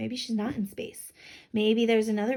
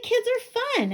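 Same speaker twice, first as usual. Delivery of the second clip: put-on mildly excited girl; 12 semitones higher, slower than usual. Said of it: "She's like".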